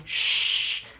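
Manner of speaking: put-on a breathy, voiceless shush like a creepy ghost kid; whispered shush. Ghost boy hushing the guy, a whispered shush. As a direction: hush them in a bare whisper. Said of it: "seeing a fucking ghost boy going".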